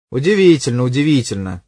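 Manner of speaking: like a man who just won the lottery; detective gloating over a lucky break, delighted; delighted surprise. A narrator's reading. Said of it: "голосом человека, который сию минуту узнал о выигрыше".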